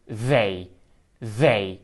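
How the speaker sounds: "they" with a voiced th at the start; teacher modelling "they" for learners; voiced th word. Shown as a demonstration. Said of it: "یا لغت اونها".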